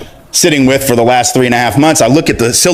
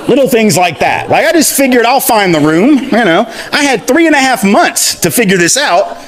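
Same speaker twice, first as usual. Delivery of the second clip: higher, chuckling through the words; laughing; 8 semitones higher than usual. Real, not acted. Telling the audience about skipping the syllabus, laughing. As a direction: laugh at your own past carelessness. Laughing at his younger careless self.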